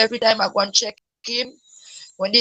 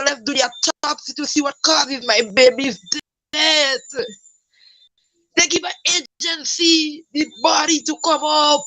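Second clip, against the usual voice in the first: raised, higher-pitched angry protest; mother furious at the hospital, voice pitched up; getting mad; 5 semitones higher than usual. Real, not acted. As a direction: pour out the anger at the hospital. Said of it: "I cuss all hoe because I getting mad".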